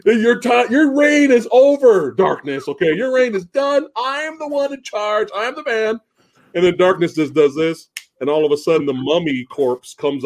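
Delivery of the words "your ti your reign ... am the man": high mock gloat; goblin boast. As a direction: taunt the villain like a tiny goblin. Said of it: "he's all like".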